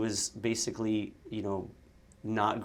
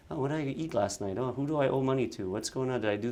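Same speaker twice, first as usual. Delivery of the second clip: racing inner thoughts; 3 semitones higher, faster than usual. Retold or imitated. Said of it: "all I do is a voiceover of".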